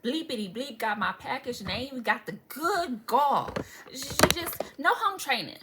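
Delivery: mock-outraged cussing out of a neighbor. Recalling how she cussed out a neighbor over a package, indignant. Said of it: "I was in here cussing Jessica out".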